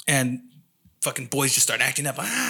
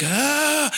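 imitated toddler scream; 12 semitones higher than usual. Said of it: "He was screaming".

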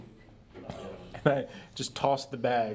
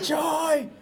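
calling out; 11 semitones higher than usual. Acted. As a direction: shout for someone inside the house. Fallen Leroy calling for help.

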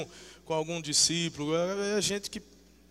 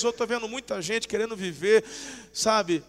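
ordinary delivery

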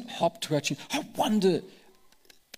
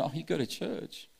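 mocking skeptic; 3 semitones higher, faster than usual. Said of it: "And then".

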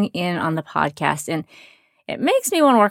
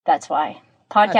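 tin can sound; 2 semitones lower than usual. Real, not acted. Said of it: "so it sounds a bit like I'm in a tin can".

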